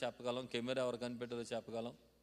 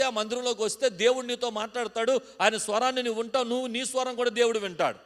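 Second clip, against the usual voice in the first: higher, louder preaching voice; fervent preaching; 8 semitones higher, 10 dB louder than usual. Acted. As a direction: preach with full force to the church. Preaching at full force.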